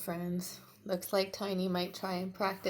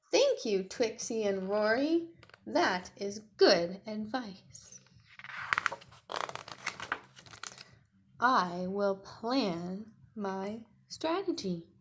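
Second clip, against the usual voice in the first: Tiny's voice; 5 dB louder, slower than usual. Acted. Tiny thanking Twixie and Rory, earnest. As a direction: thank them earnestly and slowly.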